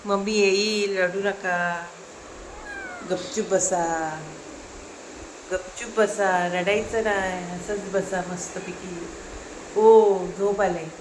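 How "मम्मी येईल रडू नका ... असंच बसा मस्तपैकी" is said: soft, slow soothing hush; calm the little ones down gently; lightly voiced older brother soothing babies; soothing for dada. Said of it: "यांना सांग".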